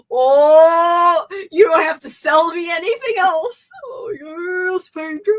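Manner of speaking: high, swooning fangirl thrill; gasp, burst out loud, then swoon; gushing excitement. Real, not acted. Fan hears Pedro Pascal is in the new movie, gushing excitedly.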